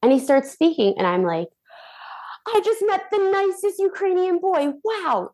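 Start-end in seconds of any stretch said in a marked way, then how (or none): 2.5-5.3 high, swooning delight; telling everyone about the nice Ukrainian boy, giddy; giddy gushing. Retold or imitated. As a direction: gush like a smitten girl. Gushing over new boy.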